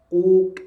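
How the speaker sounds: "Kuk" with a loud breath burst at the end; bouncing qalqalah. Shown as a demonstration. Teacher demonstrates a qalqalah bounce. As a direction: pop the final k of "Kuk". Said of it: "Ada bunyi percikan nafas".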